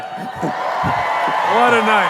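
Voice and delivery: a drawn-out, stretched show-closing call; announcer flourish. Acted. Host signing off the show to the crowd, big drawn-out announcer call. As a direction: close the night like a showman.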